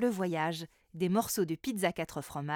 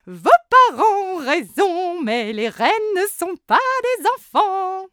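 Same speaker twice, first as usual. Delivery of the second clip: gushing candymaker; 9 semitones higher, 11 dB louder than usual. A narrator's reading. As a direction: gush over the candy. Candymaker replies. (confiseuse gourmande et aiguë)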